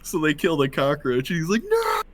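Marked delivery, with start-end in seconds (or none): 1.7-2.0 high, drawn-out mock "no"; dramatic wail. Prisoner crying over his killed pet cockroach, dramatic mock wail. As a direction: overplay the despair, pitch leaping way up. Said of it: "acting all dramatic".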